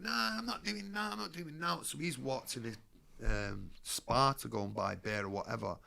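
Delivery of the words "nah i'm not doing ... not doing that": mock drunk slur. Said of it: "he's pretending to be drunk".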